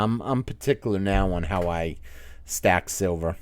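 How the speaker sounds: ordinary delivery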